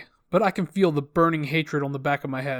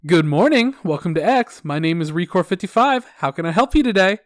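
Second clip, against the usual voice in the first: mildly over-cheerful customer service voice; lightly hammed-up, upbeat phone greeting; sickeningly positive; 4 dB louder than usual. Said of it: "my sickeningly positive customer service attitude".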